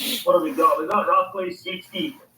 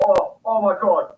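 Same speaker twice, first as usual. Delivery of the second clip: excited; 5 semitones higher than usual. Real, not acted. Big brim chasing the lure.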